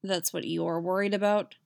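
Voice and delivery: dry deep witcher voice; flat low wry question; gruff low question. Acted. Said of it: "he asks".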